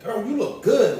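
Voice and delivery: high, loud hyped-up compliment; sassy girl compliment. Retold or imitated. Repeating a passerby's loud compliment, high and excited. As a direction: gush it like a girlfriend hyping you up. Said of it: "now they're like".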